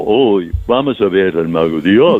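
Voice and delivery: lightly played simpleton, stretching vamos; playing dumb. Shown as a demonstration. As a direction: say it like you're putting on stupid. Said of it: "Y se hace tonto como".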